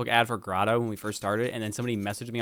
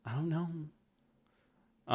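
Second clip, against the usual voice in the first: slow drawl; 5 semitones higher, 8 dB quieter, much slower than usual. Pretend. Drawled joke answer.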